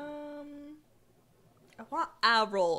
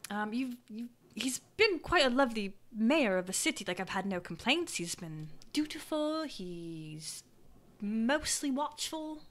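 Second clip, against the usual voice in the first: lightly voiced, measured townsperson; townsperson character. Townsperson describes the mayor to adventurer, mildly hesitant. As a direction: choose the praise carefully, with pauses.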